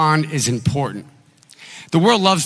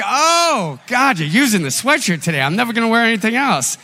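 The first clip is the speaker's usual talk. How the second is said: high, thrilled, racing at the end; mock delight at the sweatshirt working; 6 semitones higher than usual. Pastor tells church his thrilled reaction to the clerk.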